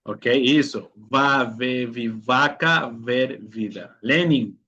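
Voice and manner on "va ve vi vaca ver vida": slow "Va, ve, vi, vaca, ver, vida", buzzed V; labiodental V. Shown as a demonstration. Teacher correcting a student, slow labiodental V in "vaca, ver, vida". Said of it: "dientes superiores sobre el labio inferior".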